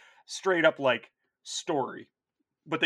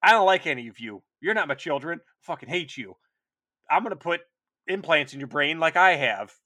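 angry Angron; 2 semitones higher, 8 dB louder than usual. Retold or imitated. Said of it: "He's like".

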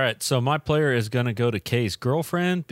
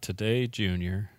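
stuttering quote; 6 dB quieter than usual. Retold or imitated. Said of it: "Billy Madison".

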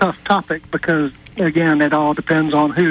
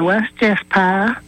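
put-on slow, drawn-out Southern accent; easy Southern grandma accent; 3 semitones higher than usual. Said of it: "In a Southern accent".

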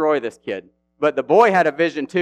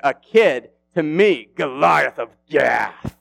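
loud, higher scornful taunt; mock the kid with sticks; Goliath jeering at David, raised and loud; taunting giant; 4 semitones higher, 3 dB louder than usual.

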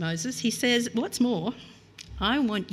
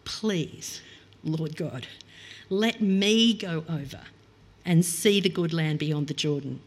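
heartfelt plea; 3 semitones lower than usual. Retold or imitated. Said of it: "This is a deep, heartfelt plea".

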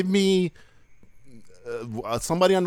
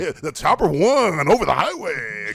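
lightly voiced morning radio host; slow traffic report read; radio traffic reporter; 4 semitones higher, 4 dB louder, slower than usual. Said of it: "You gotta make a little bunch of fart noises and like".

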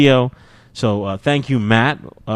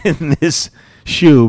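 "shoe" slurred by a dry mouth; 3 semitones higher, 5 dB louder, slower than usual. Real, not acted. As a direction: talk through a parched mouth. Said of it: "my mouth is so dry".

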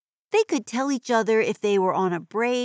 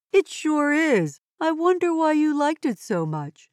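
put-on broad singsong kids theatre; 8 semitones higher than usual. Kid character teasing friend.

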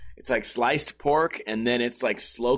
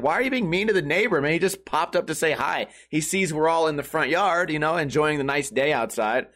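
higher-pitched, indignant appeal; mildly exasperated telling-off, pitched up; retold protest; 4 semitones higher than usual. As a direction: plead the neighbor's case to a rude friend. Retold scolding of rude friend.

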